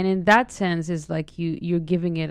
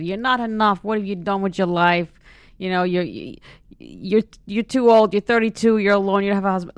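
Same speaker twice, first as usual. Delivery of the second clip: nagging guilt-trip voice, rising and louder; nagging Jewish mother voice; 2 semitones higher, 5 dB louder than usual. Retold or imitated. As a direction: scold like a disappointed mother. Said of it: "I call it the Jewish voice".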